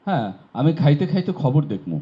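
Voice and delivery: lightly voiced regional Bengali dialect, saying খাইতে as khaite instead of খেতে; a light regional Bengali lilt on খাইতে খাইতে. Shown as a demonstration. Teacher showing students the regional variant, light regional Bengali dialect. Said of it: "কোনো কোনো অঞ্চলে বলবে".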